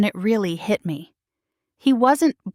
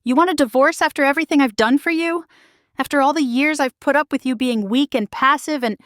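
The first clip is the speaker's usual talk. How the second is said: angry; 6 semitones higher than usual. Acted. Furious wife attacking husband.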